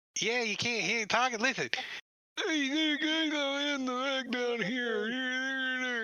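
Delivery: very high, slow, drawn-out thrown voice. Voicing a character doing ventriloquism with a skull: Timmons ventriloquism voice. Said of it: "He's trying to ventriloquism in".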